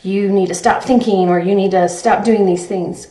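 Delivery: firm, slightly pressed mock self-scolding; mildly aggressive self-talk. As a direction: lightly act out scolding yourself. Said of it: "be really aggressive and".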